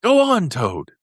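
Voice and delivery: eager high Mole urging on; immensely interested. A narrator's reading. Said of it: "immensely interested".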